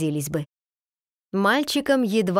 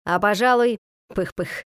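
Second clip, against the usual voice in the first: genie voice. A narrator's reading. Skipper puffing pipe between words.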